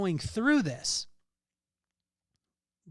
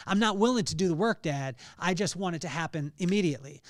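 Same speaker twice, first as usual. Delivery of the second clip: son as dad heard it; 4 dB louder than usual. Retold or imitated. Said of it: "that's how I heard it".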